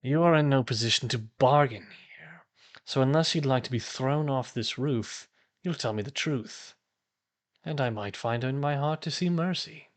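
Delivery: lightly voiced cultist, measured threat; a hint of a commanding villain; threatening cultist leader. Cultist threatens to throw prisoner off the roof, lightly menacing.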